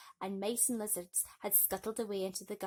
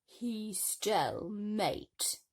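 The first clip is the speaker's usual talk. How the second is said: snarling stepmother; much slower than usual. Acted. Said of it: "snarled their mother".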